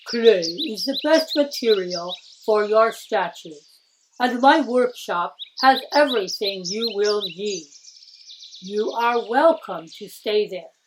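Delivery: a hint of a frail old craftsman; lightly voiced old master. Old master advising young Tokuzo, lightly voiced sick old man.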